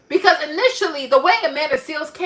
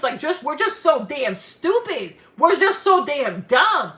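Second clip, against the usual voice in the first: ordinary delivery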